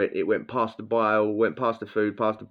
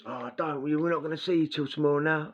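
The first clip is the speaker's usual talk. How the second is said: mock lament; 7 semitones higher than usual. Mates lament him leaving.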